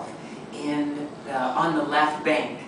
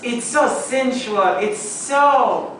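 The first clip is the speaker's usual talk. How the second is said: put-on sultry French accent; 7 semitones higher, 4 dB louder, slower than usual.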